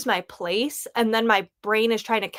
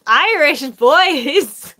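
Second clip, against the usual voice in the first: slow, louder, higher "Irish boys?" in an incredulous put-on voice; surprised; 5 semitones higher, 9 dB louder, much slower than usual. Telling viewers her reaction to the book, drawn-out louder incredulous voice. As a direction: stretch it out like you can't believe it. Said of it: "That's why I was like".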